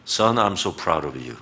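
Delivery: very slow, tender English. Shown as a demonstration. Pastor demonstrating praise to a son, slow and tender. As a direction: say it slowly to your son.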